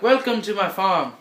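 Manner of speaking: put-on British accent. Main British man welcoming guests, British accent. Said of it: "the main British dude comes out".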